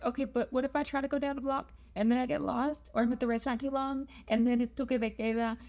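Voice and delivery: mildly anxious run of what-if questions; a touch of fretting, words tumbling out; paranoid self. Retold or imitated. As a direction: rattle off worries, imitating a paranoid inner voice. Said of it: "my paranoid self was like".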